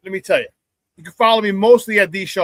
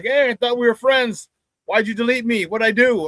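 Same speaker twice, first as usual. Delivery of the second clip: lightly voiced, higher complaint; imitating puzzled friends; 3 semitones higher than usual. Host voicing friends who ask why they were deleted, mild mock hurt. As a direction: mimic a deleted friend's protest.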